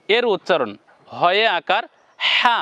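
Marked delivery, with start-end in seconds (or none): 2.2-2.6 "হা" with a strong puff of air on h; airy h. Shown as a demonstration. Teacher demonstrating the letter to viewers, "হা" with air. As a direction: push breath through the start of "হা". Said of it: "বাতাস দিয়ে".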